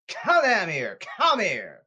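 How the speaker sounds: angry summons. Real, not acted. Ranter demanding the Mets owner come down, angry call. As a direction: order them down here forcefully.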